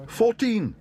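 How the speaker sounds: high, loud shout; shouted bid. Acted. Bear shouts his bid across the hall. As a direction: blurt the bid out. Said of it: "shouted Paddington".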